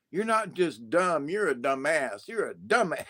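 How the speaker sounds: "dumbass" leaned on as the punchline; emphatic DUMBASS. Shown as a demonstration. Showing how to call someone a dumbass, emphatic stress on "dumbass". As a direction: stress "dumbass" against plain "dumb", repeating it for effect. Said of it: "the way I say it with emphasis".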